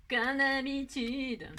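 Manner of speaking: drawn out, slowly resigned; résignation amusée. Real, not acted. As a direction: stretch "Comme d'habitude" into a slow sigh of resignation. Se moque de ses erreurs. (« Comme d'habitude » étiré lentement, résigné)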